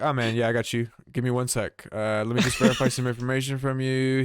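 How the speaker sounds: easygoing bro on the phone; lightly imitating a laid-back rep; chill guy.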